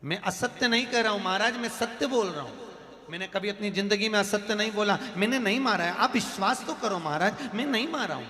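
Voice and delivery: high-pitched, insistent plea to the king; acted desperate protest; pleading cry. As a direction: cry out your innocence without much extra volume. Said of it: "पंडित चिल्लाता रहा".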